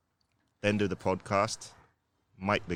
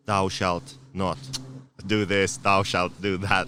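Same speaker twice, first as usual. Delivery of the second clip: mock commandment; slower than usual. Mock rules read as commandments.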